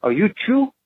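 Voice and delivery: imitated woman's question. Co-owner's wife asking the caller who he is, imitated woman's question. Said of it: "She says it like this".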